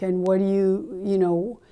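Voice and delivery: scornful rhetorical jab; sarcastic. Retold or imitated. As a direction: needle him with a sarcastic retort. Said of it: "Like, sarcastically".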